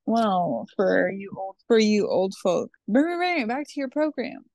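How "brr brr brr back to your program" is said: high buzzy news jingle; parody news anchor. Retold or imitated. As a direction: hum the broadcast jingle. Imitating a news broadcast.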